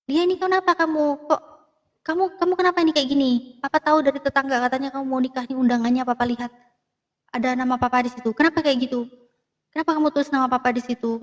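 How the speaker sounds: imitating a fuming father demanding answers; angry father. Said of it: "itu dia marah".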